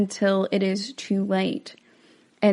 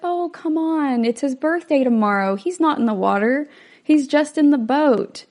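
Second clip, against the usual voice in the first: mild protest; 5 semitones higher, 3 dB louder than usual. Retold or imitated. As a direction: imitate a wife brushing off the worry, pitch lifted. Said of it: "Ellen kind of protests at first".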